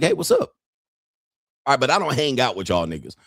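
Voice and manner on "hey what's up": sudden high bright greeting, much higher; cheery hey. Retold or imitated. Comedian greeting strangers in public, high and cheery. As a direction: toss out a friendly hey from afar. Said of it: "I'll be like".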